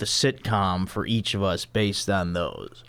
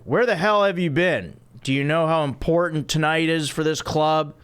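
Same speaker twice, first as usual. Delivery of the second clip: angry Red voice; 5 semitones higher than usual. Acted. Red scolds Phoebe, voiced.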